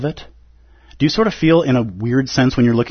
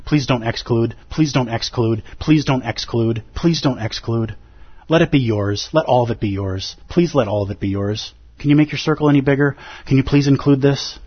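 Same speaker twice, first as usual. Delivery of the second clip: gentle pleading. Retold or imitated. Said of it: "he's just pleading with me".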